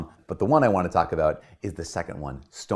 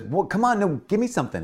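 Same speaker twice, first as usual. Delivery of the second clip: much higher, begging for a reaction; pleading partner; 13 semitones higher than usual. Retold or imitated. Partner begging the stonewaller for any response, exasperated pleading. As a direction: coax something out of them.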